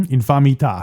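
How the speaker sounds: "Infamità" with a crisp Italian t in the last syllable; Italian pronunciation. Shown as a demonstration. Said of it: "the Italian pronunciation".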